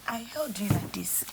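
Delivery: whisper. Retold or imitated. Shows how she held her.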